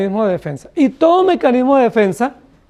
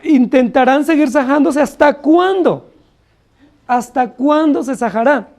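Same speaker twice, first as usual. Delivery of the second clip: higher, slow mocking question; ironic taunt; 4 semitones higher than usual. Preacher voicing Elijah mocking the prophets of Baal, ironic. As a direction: taunt the false prophets, dragging it out. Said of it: "Elías era bastante irónico".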